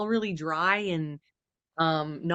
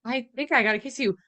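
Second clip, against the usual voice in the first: breathless giddy rush, rising into a squeal; excited gushing; 5 semitones higher than usual. Retold or imitated. Friend acting out the heroine, giddy and excited. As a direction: gush like a girl about to kiss. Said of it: "I'm thinking she's like".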